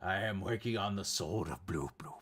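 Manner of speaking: hushed, unvoiced secret whisper; whispering a secret to the kids; secretive whisper. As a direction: let them in on a secret. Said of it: "And I'd be like".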